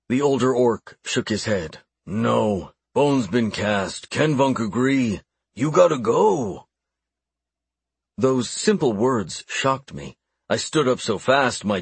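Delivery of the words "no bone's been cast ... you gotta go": slow then rising orc elder; solemn old orc. Acted. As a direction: hand down the verdict as an orc. Orc delivers the verdict.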